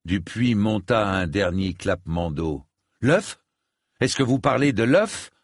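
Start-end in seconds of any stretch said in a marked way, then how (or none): 3.0-5.3 high alarmed questioning; startled, rising disbelief. A narrator's reading. Alarmed question about the egg.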